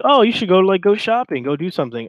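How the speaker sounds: high, sing-song mock of his texts; high teasing mimicry of a chat message. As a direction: squeak out his suggestions in a teasing high pitch. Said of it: "So he goes from".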